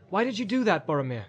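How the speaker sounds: anxious, high-pitched questioning; reproachful hobbit. Acted. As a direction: chide him, falling on the name. Frodo reproaches Boromir.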